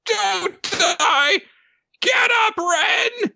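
very high, impassioned cartoon pep talk; Nobuteru. Creature urges collapsed Ren to rise, high and fervent. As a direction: squeal encouragement, building to a shouted plea. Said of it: "And Nobuteru says".

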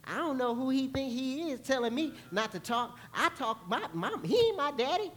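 sassy churchgoer pushing back, pitch rising; a touch of sulky defiance; indignant sass. Pretend. Congregant to Joshua, a mock indignant sass. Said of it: "Y'all would be like".

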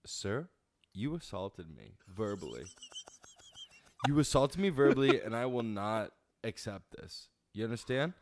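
entitled Karen berating the waiter; Karen customer. Acted. Customer to waiter: entitled Karen rant. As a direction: demand the manager, cutting him off. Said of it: "we're gonna learn how to Karen".

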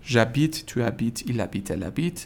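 j'habite as "zhabit", h unheard in habite; j'habite joined, je losing its vowel; silent h, elided je. Shown as a demonstration. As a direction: recite j'habite, tu habites, il habite, elle habite slowly with no h.

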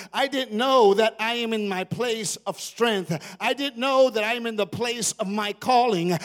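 loud, rising realization; David waking to his strength. Retold or imitated. Preacher voicing David's discovery in the cave. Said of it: "He goes".

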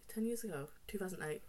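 questioning herself, pitch rising; unsure, rechecking the date; doubtful question. Real, not acted.

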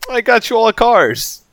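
squealing high mock Harvey at the dealer; hammed-up high excited boast. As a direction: shriek it up high and slow, hammed-up. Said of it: "He's like".

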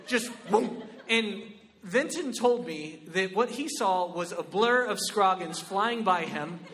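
ordinary delivery

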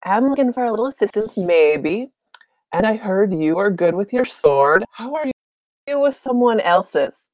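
flirty offer. Acted. Leona flirting with Nath.

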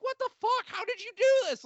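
high, loud shocked disbelief; stunned disbelief. Retold or imitated. Friends react to the guest booking in shock. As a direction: react like you can't believe it.

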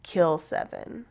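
slow, soft ghostly command; slow, hushed ghostly command; eerie voice. Retold or imitated. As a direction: intone it slowly like a haunting voice. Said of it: "he heard the voice again".

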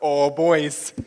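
hook the friends, then stop; eager tease. Retold or imitated. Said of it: "'cause I'm like".

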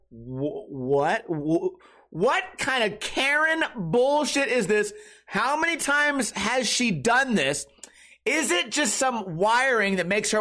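slow, high, baffled outrage; stunned disbelief. Real, not acted. Comic disbelief at the Karen behaviour, slow and high. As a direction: let the disbelief stretch out.

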